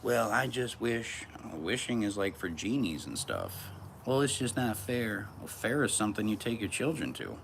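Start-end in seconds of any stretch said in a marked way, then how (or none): 0.0-1.2 high, drawn-out mocking whine; mock a wishful complainer, slow and high; exaggerated "poor me" voice; whiny complainer. Mimics a complaining girlfriend. 4.0-5.3 high, slow mocking whine; drawn-out pouty complaint; whiny complainer. Mimics a complaining girlfriend.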